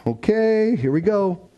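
high, drawn-out okay, then settling; bracing himself. Retold or imitated. Dad readying himself at urgent care, bracing. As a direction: psych yourself up for what's coming.

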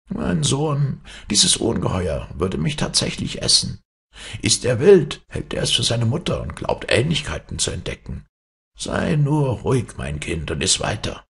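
höher, beschwichtigend als Mutter; gespielte Mutter. Acted. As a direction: die Söhne als Mutter beruhigen. Hero plays the mother. (höher, mütterlich beschwichtigend)

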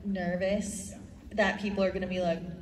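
usual speaking voice

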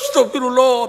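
imitating a tearful plea for forgiveness; acted sobbing repentance; acted real weeping. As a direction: sob out the prayer, demonstrating real crying. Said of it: "Nangis betul-betul".

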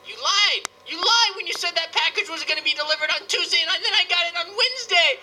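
hammed-up outrage, pitch climbing; building comic rant; mock indignation. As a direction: accuse them in playful fury. Mock rant at Amazon over late package.

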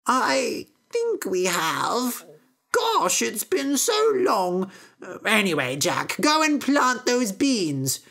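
flutter and wander off mid-thought; dotty old mother. Acted. Mother answers, sends Jack.

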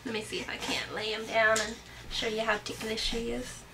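soft whisper to camera. Real, not acted. Whispering while baby settles.

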